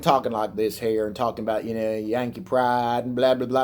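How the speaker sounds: lightly put-on hillbilly accent. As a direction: imitate a Southern hillbilly brother. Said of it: "got a hillbilly accent".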